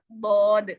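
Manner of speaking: बौद with one long rounded "aw", no glide; full, heavy vowel in बौद; correct Arabic reading. Shown as a demonstration. Teacher modelling the next letter, rounded "aw". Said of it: "इसी तरह से".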